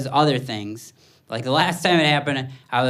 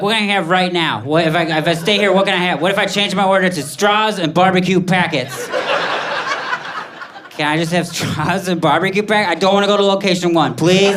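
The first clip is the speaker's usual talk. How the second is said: mock panic; 4 semitones higher than usual. Comic at the McDonald's window, in hammed-up mock panic. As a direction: fret like the order broke everything. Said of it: "And then I started to panic".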